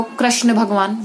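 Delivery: कृष्ण said as "krashna"; popular mispronunciation. Retold or imitated. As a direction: say कृष्ण with "ra", as people do. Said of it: "लोग बोलते भी है".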